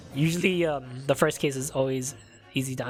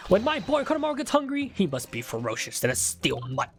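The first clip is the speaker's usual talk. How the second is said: put-on theatrical old man; 4 semitones higher than usual. Dramatic voiced witness monologue.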